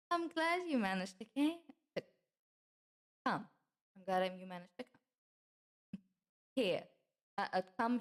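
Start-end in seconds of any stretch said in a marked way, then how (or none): 0.1-3.5 high-pitched welcome. Acted. First take of welcome, stumbles. 4.0-6.0 slow, careful welcome. Acted. Repeats welcome after stumbling.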